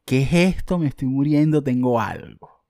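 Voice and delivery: half-hammed frightened outburst; mock panic. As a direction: act out the sudden panic over a strange spot. Retold panic at a spot.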